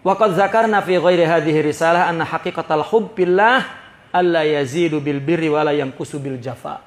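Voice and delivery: chanting the Arabic passage with a light laugh; Arabic text recitation. Acted. Preacher recites the Arabic text to his congregation, chant-like. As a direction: recite the kitab line like a preacher, a touch amused.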